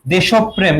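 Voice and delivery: "দেশপ্রেম" with an o after desh and doubled p; pronunciation demo. Shown as a demonstration. Teacher answers how the word is pronounced, demonstrated as desh-op-prem in "দেশপ্রেম". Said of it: "এর উচ্চারণ কি হবে দেখো".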